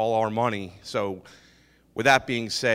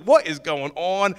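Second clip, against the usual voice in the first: loud, slow, higher-pitched disbelief; retold bewilderment; 5 semitones higher, 5 dB louder, slower than usual. Retelling shock as partner hits the wall, bewildered. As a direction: stretch it out in raised-voice astonishment.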